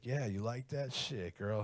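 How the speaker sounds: slow, drawn-out bedroom talk; mock Black lover voice. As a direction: imitate cocky sex talk, stretched out. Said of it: "You sound like a black guy".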